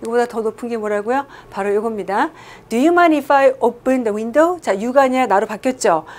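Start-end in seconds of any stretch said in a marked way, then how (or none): 2.7-4.6 most polite slow request. Shown as a demonstration. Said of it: "꺼리시겠습니까".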